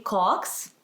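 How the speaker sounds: slow, word by word with long pauses; repeat-after-me model. Shown as a demonstration. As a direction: lift each word, then let vardas fall. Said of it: "repeat it after me".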